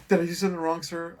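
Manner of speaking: high nervous plea; timid worried question. Retold or imitated. Comic playing scared Amazon driver, high timid plea. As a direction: ask fearing trouble.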